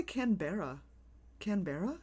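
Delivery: Canberra with a full "BEAR-uh" ending; speaker's own pronunciation. Shown as a demonstration. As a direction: say "Canberra" as can-BEAR-uh, unsure. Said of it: "That's how I pronounce it".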